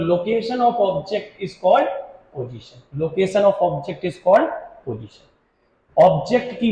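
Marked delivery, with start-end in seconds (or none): 0.1-2.8 very slow, word by word, pause before the last word; slow dictation. Shown as a demonstration. Teacher dictating the definition to students, slow and spaced. 3.0-5.3 very slow and even, in one breath; slow dictation. Shown as a demonstration. Teacher repeating the definition for notes, very slow.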